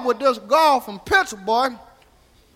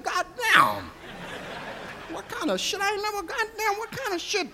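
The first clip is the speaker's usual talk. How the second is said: higher, soft, disbelieving under-the-breath grumble; muttering to himself; 9 semitones higher, 7 dB quieter than usual. Retold or imitated. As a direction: swear quietly so she can't hear. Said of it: "I said this to myself".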